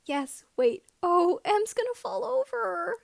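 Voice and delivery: urgent fond alarm. Acted. Watching Emmy about to tip over, high and loud.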